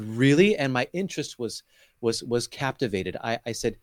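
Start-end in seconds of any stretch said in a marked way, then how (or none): 0.0-0.6 louder, questioning rise; blurted surprise. Retold or imitated. Man retelling his reaction to a pastor, blurted surprise. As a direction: let the question burst out, retold. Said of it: "pushed through me and said".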